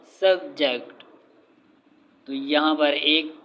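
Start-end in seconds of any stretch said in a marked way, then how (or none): 0.1-0.9 "सब्जेक्ट" broken into two beats, सब and जेक्ट; syllable by syllable. Shown as a demonstration. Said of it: "दो syllable हैं".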